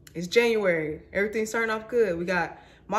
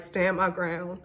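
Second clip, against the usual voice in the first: normal talking voice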